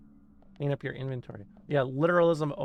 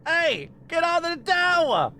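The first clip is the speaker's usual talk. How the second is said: very high put-on cartoon yell; Carl impression; 14 semitones higher, 4 dB louder than usual. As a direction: shout it like a cartoon crank. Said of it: "the line that Obama used".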